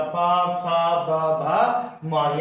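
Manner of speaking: प, फ, ब, भ, म recited one by one from the lips; teacher sounding out प, फ, ब, भ, म with the lips closing on each; labial letter demo. Shown as a demonstration. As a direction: separate lip-made syllables प, फ, ब, भ, म. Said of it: "ये पांचों आपका ओष्ठ से होते हैं".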